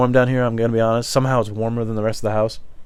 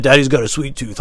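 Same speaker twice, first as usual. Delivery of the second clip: everyday delivery capped with a laugh; lightly imitated jokey dad; imitating how he said it; 3 semitones higher than usual. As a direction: say it casually, then chuckle. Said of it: "he laughed like that".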